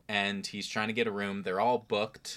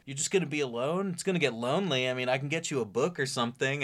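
mock waiter; 5 semitones higher, faster than usual. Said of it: "He's like".

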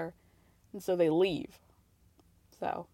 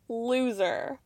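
flat repeat. Real, not acted. Viewer repeating "Loser." flatly under her breath. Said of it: "such a loser".

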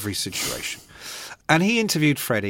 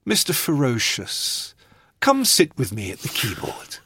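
imitating a singer. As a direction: purr the invite like a grand showman. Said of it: "he looks up from the piano and goes".

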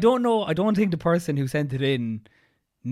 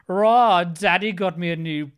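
put-on posh English girl, a bit louder; posh English girl impression; 4 semitones higher, 6 dB louder, slower than usual. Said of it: "my posh English girl impression".

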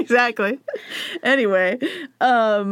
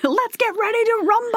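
boxing announcer; 13 semitones higher than usual. Pretend.

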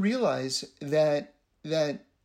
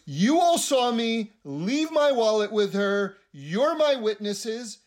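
slow, raised insistence to the crowd; indignant appeal; 4 semitones higher, 3 dB louder, slower than usual. Retold or imitated. Guest appealing to the people around him as witnesses, slow and insistent. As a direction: plead slowly for backup.

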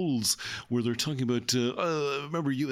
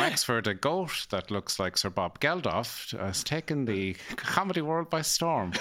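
mock newsreader. Newsreader with absurd Wexford story, mock-serious. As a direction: read it like a spoof news item. Joins in the mock news bulletin.

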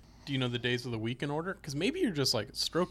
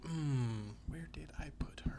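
mumbled aside; 11 dB quieter than usual. Pretend. Mock forgetful dad.

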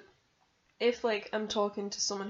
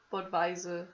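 put-on German accent. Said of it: "saying it in, like, a German accent".

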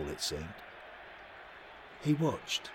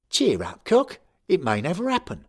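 loud, high, chirpy Cockney geezer; jolly the sulking lad along; cheery Cockney; 10 semitones higher, 9 dB louder than usual. A narrator's reading. Larry teasing the sulking boy, chirpy Cockney. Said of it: "Larry said".

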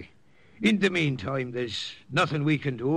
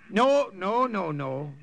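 higher, firm no to an eager warrior; firm refusal; 5 semitones higher, slower than usual. Acted. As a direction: cut him off firmly. Priest overruling eager warrior.

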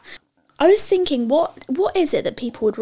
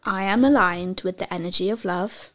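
over enunciating; 2 semitones lower than usual. Shown as a demonstration. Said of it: "I'm gonna say it slowly for you".

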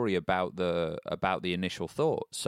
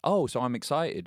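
put-on higher child voice, questioning; kid catching on; 6 semitones higher, 3 dB louder than usual. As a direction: play a child tentatively trying out the idea. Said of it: "And the kid was like".

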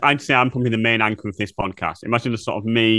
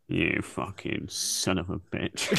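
mock outrage; 5 semitones lower, 11 dB quieter, much slower than usual. Mock outrage over toast.

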